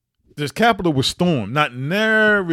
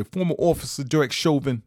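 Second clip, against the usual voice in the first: a hint of imitated New York accent. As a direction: mimic a New York detective's accent, lightly. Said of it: "he would say in his New York accent".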